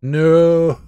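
high shouted no; panicked scream. Real, not acted. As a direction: yell it in real panic. Caught by monster.

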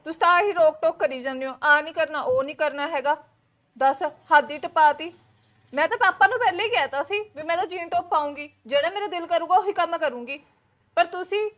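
loud, heated protest at the mother-in-law; angry complaint. Acted. Daughter-in-law snapping back at her mother-in-law, loud and angry. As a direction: raise your voice, fed up and defiant. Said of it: "ਗੁੱਸਾ ਨਾ ਕਰ".

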